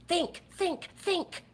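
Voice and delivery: hushed, exasperated plea; urgent hush. Real, not acted. Pleading with parents to think.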